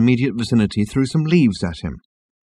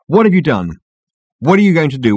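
raised, demanding questions; rounding on someone; 7 semitones higher, 5 dB louder than usual. A narrator's reading. Ford grills the hairdresser, challenging. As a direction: press him for an answer. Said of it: "rounding on him".

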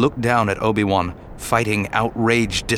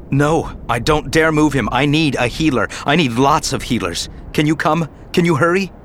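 urgent plea; 4 semitones higher than usual. Acted. Anakin begs Yoda over comlink, urgent and higher. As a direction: beg for help fast.

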